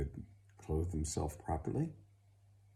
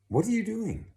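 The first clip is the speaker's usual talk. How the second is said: shocked shout; 8 dB louder than usual. Acted. Father finds hunchback in toilet.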